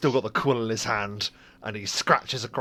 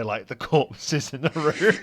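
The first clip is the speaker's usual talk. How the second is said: usual speaking voice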